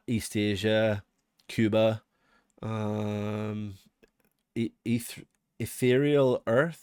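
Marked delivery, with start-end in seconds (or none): 5.6-6.8 Ethereal sounded out slowly, unsure; tentative attempt at saying Ethereal; unsure pronunciation. Real, not acted. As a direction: try out Ethereal Earth slowly. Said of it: "Is that how you pronounce that one?".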